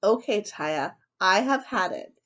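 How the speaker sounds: a stern dad, fed up; fed-up father. Acted. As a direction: lay down the law, slowly. Father loses patience.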